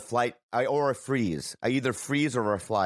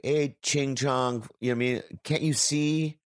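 mock racist director. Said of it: "Something like".

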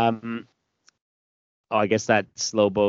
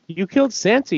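"You killed Santa" yelled much higher with "killed" hit hard; jeering, raised voice; mocking shout; 11 semitones higher, 4 dB louder than usual. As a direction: taunt her at full volume. Villain taunting Jenny loudly.

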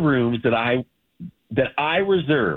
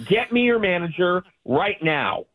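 entitled customer; 5 semitones higher than usual. Real, not acted. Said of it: "getting all angry like this".

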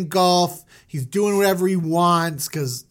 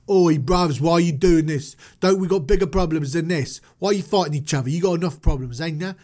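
put-on British street accent; Christian Bale. Moses breaking up a fight in British street accent. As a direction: plead like a London lad. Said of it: "I'm going with the Christian Bale".

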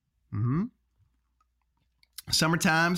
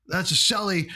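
mock hockey broadcaster; 4 semitones higher, 3 dB louder than usual.

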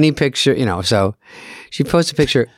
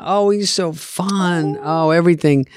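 imitating mom; 7 semitones higher than usual. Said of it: "And she goes".

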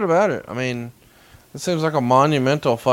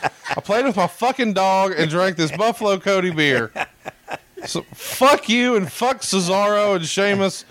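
mock angry rant; 3 semitones higher than usual. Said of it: "Eric's pretending".

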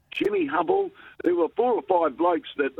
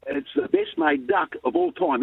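slower and higher, thrilled to repeat it; excited; 10 semitones higher than usual. Retold or imitated. Boy eagerly repeating coach's praise to his father, excited. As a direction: savour the praise like a gift. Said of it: "and I'm excited".

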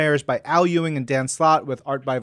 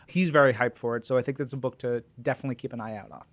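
normal talking voice

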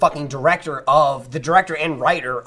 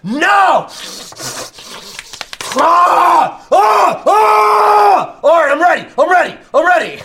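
high, loud hammed-up yells; psyching up scream; 13 semitones higher, 6 dB louder, much slower than usual. Actor psyching up before a take, loud high yelling. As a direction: scream yourself into the role.

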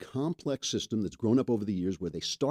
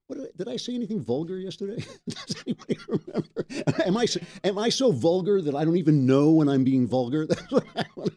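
laughing; 6 semitones higher, 3 dB louder than usual. Real, not acted.

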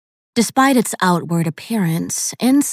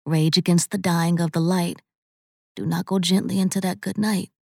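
reciting poetry; 4 dB quieter than usual. A narrator's reading. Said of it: "Kieran recited".

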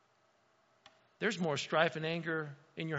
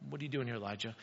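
hushed voice of God; 7 semitones lower, 8 dB quieter, much faster than usual. Acted. God's question voiced in story.

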